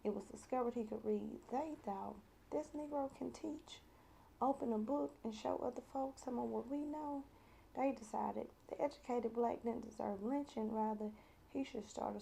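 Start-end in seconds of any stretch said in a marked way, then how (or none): 2.5-7.2 a slightly put-on, higher-pitched quoted voice; lightly voiced white folk. White folk deciding he can teach, lightly voiced in higher pitch. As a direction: lift the pitch lightly for the group's thought.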